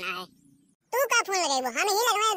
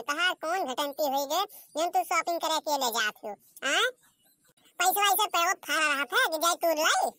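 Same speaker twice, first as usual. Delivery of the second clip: complaining mother-in-law; 3 semitones higher than usual. Acted. Mother-in-law refusing shopping money, nagging. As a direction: grumble like a stingy mother-in-law.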